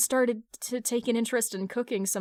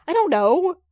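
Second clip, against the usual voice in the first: flustered outburst; 8 semitones higher, 10 dB louder than usual. Acted. Hal cornered, flustered outburst.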